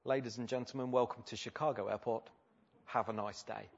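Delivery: understated, matter-of-fact pilot welcome; routine pilot announcement. Retold or imitated. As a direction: say it softly, as if nothing had happened. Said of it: "back to his default setting".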